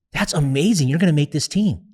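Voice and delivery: excited dad. Retold or imitated. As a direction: retell a proud dad cheering the news. Dad reacts to daughter's tryout news.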